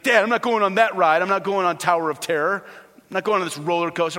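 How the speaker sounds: mock insistent refusal to dad; frightened kid refusing. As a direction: imitate a kid balking at a ride. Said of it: "I could see it in my kids".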